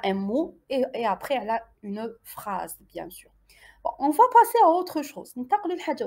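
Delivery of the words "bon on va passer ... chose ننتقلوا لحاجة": whisper. Real, not acted. Teacher moves to next topic.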